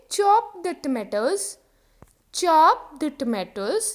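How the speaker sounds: slow drill for learners; slow model sentence. Shown as a demonstration. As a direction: chop the tomatoes said very slowly. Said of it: "तो उसको क्या बोलोगे?". (धीरे-धीरे बोलें)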